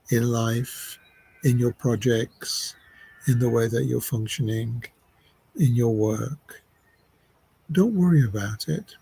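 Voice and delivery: unhurried meditation voice, long pauses; measured phrases with space to breathe; guided meditation. Acted. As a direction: guide them gently into relaxing.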